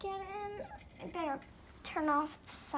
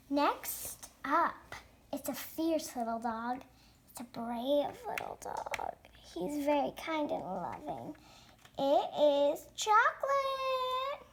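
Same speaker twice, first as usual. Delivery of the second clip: show host; 4 semitones lower than usual. Pretend. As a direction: introduce the next act like an emcee. Hosts the pretend pet show.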